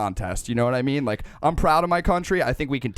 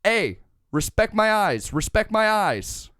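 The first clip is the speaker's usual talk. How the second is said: slow, higher-pitched mock demand, no accent attempted; imitated roommate's husband; 5 semitones higher than usual. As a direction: quote him slowly, raised pitch, drawing out each demand. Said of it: "he literally goes".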